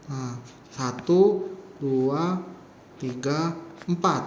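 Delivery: slow, drawn-out counting of strokes; stroke count demo. Shown as a demonstration. Teacher counting strokes slowly for students. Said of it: "tai itu seperti ini".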